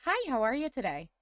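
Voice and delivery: lightly put-on customer service greeting. Shown as a demonstration. Host showing how she greets customers, customer service voice. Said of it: "in my customer service voice".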